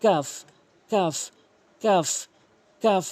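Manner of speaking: কাফ with k slightly forward of qaf; Arabic kaf demo. Shown as a demonstration. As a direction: repeat কাফ separately with a light front k. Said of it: "একটু আগে বাড়াইয়া উপরে তালুর". (কাফ জিহ্বার গোড়ার একটু আগে থেকে)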